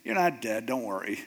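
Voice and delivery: low, casual calming reply; lightly voiced God. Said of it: "he hears God's voice going".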